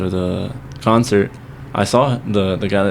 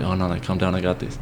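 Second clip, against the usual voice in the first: calming; 2 semitones lower, 8 dB quieter than usual. Retold or imitated. Abel telling friend he's got this, retold as soft calming. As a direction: quietly imitate someone defusing things. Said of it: "Abel tried to calm down the situation".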